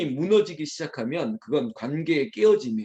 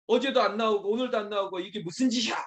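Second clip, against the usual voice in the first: high, raised-voice scolding; acted irate parent, pitched up; angry yelling; 6 semitones higher, faster than usual. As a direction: rant like a fed-up father at breakfast. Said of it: "확 소리를 지르는 거죠".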